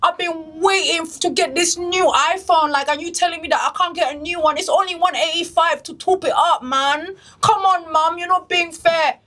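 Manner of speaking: a hint of a sulky London kid begging; UK kid nagging mom. Teen pestering mom for shoes, mildly whiny. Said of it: "These are the U K kids".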